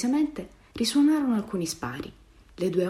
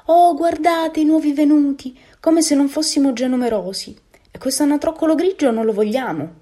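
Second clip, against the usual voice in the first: hostile big duck, scornful; 9 semitones higher, 9 dB louder than usual. A narrator's reading. Big duck rejecting the grey newcomer, loud scorn. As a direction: call out loudly in mock dismay, then reject him.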